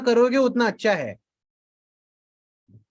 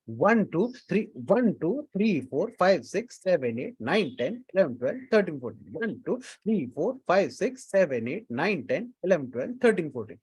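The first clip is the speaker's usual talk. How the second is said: steady rhythmic counting of beats; 4 dB quieter than usual. Shown as a demonstration. Teacher counting beats steadily for the online class. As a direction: count the tala evenly, in rhythm. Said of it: "ये कितना simple है देखो".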